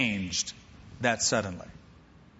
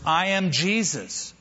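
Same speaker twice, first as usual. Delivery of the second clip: slow declaration; 3 semitones higher, slower than usual. Acted. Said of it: "Until he heard the words".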